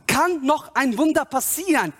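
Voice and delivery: emphatic preacher's appeal; fervent preaching. Real, not acted. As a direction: urge the congregation on. Preaching with rising fervour.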